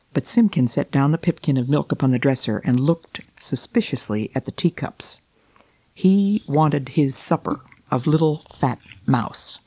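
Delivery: gentle storybook reading, unhurried; story narration. A narrator's reading. Reading The Tailor of Gloucester to listeners, storybook narration. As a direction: read it like a bedtime tale. Reads Beatrix Potter aloud.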